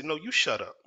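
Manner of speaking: retold yelling. Employee yelling back at his manager, retold defiant yell. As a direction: fire it back in a heated retort. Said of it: "I start yelling at him".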